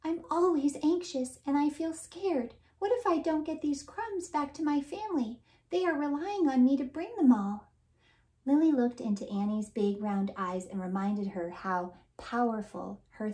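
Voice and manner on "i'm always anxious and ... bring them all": high, worried little ant voice; a scared ant near tears; anxious crying ant. Acted. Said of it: "Annie began to cry harder".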